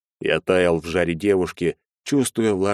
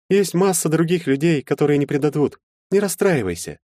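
put-on higher young woman's voice, gently consoling; comforting girl; 9 semitones higher than usual. A narrator's reading. Anfisa hugging Maxim, consoling in a girl's voice. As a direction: soothe a sad friend.

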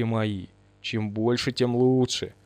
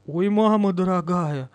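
slow stunned moan; slow dumbfounded oh; dazed dismay; 4 semitones higher than usual. Acted. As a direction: gasp it out, stupefied. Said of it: "повторяла обалдевшая дура".

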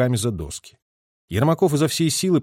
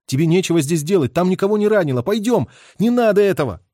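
urging; 7 semitones higher, 4 dB louder than usual. A narrator's reading. Urging her away.

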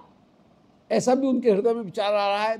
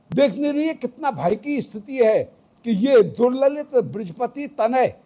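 Radha scolding her friend; 3 semitones higher than usual. Acted. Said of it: "Shri Radhika कह रही हैं".

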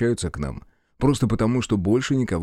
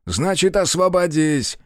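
higher and louder, slow commanding bark; barked order; 7 semitones higher, 3 dB louder, slower than usual. A narrator's reading. General barks an order at the hero, higher and louder. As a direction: snap the command at him. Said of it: "рявкнул Крючок".

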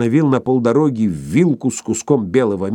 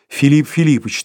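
mildly alarmed, higher call; anxious exclamation; 5 semitones higher, 4 dB louder than usual. A narrator's reading. Bormental exclaims to the professor, anxiously. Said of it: "тревожно воскликнул Барменталь".

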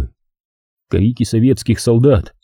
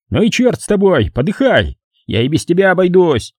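higher, disgusted dismissal; scornful yelling; 7 semitones higher than usual. A narrator's reading. Hals dismissing Lindberg, higher scornful. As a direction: write him off in contempt. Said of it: "крикнул Гальс".

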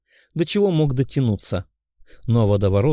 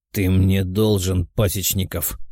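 fire demon; 5 semitones lower, slower than usual. Acted. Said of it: "прозвучали слова демона".

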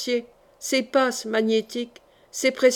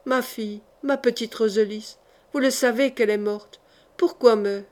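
tearful. Acted. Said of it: "Et elle pleurait".

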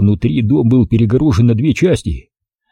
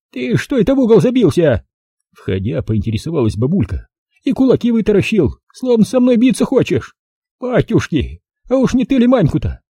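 put-on higher, brisk old-woman voice; old village granny; 10 semitones higher than usual. Old granny greeting the city visitor, high old-woman voice. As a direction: voice the feisty village grandmother.

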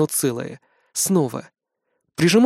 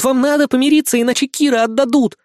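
higher, louder, breathless rush of confession; frantic, louder babbling; rattling off; 9 semitones higher, 4 dB louder than usual. A narrator's reading. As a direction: blurt it all out in one go. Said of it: "Аня тараторит вместо меня".

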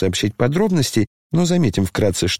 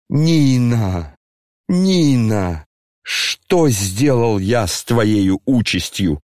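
tearful cry; slower than usual. Acted. Генерал в слезах взывает к жене.

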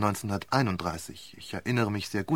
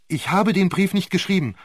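higher, louder furious denial; raging; 8 semitones higher, 6 dB louder than usual. Acted. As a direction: spit it out in a rage. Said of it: "tobte die Zeugin".

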